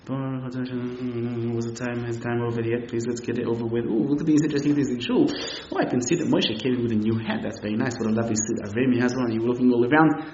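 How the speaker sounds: a mumbled blessing drifting into idle chatter; bored distracted worshipper. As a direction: lightly voice a bored man in shul. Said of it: "When your prayer looks like this".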